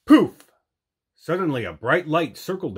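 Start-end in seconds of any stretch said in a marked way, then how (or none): 0.1-0.5 loud burst; magic poof. A narrator's reading. Narrator voicing the magic shell, loud bright poof. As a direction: pop it out like magic.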